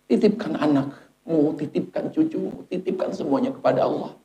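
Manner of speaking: soft, hushed angel's counsel; gentle reassurance. Acted. Angel telling the dying to entrust children to Allah, gently. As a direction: let each phrase fall away softly.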